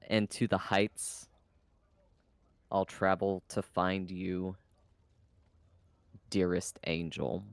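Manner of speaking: slow, careful reread of the verse. Acted. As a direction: read each phrase slowly. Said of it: "Can you read that again?".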